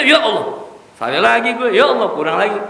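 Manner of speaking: high, loud, groaning "ya Allah"; mock self-reproach. The preacher voices a listener caught out again, mock groaning. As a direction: whine at your own mistakes.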